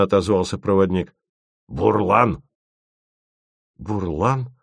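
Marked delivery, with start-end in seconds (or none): 1.7-2.4 a hint of an old-fashioned guide; lightly voiced folk guide; guide's voice. A narrator's reading. Guide naming the river in a hint of his voice. 3.8-4.5 puzzled echo. A narrator's reading. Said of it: "переспросил Тимофеев".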